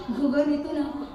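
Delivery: soft, small, cowed voice; small timid voice. Shown as a demonstration. Child pinched by mama in church, tiny voice. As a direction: shrink the voice like a scolded child. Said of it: "Gaganon yung tinig".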